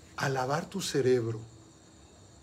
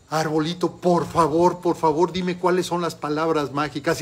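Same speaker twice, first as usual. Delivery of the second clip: pleading; 2 semitones higher, 5 dB louder than usual. Acted. Desperate boy begs tree.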